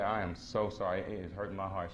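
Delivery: low, understated tearful plea; imitated tearful apology. Wife in tears apologizing to husband, mildly tearful. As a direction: retell a heartfelt, tearful apology. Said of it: "She was in tears".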